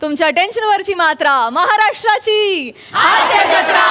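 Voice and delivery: rousing promo read building to a shout; show announcer. Acted. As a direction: sell the show, punch the title. (कार्यक्रमाची जोरदार उद्घोषणा)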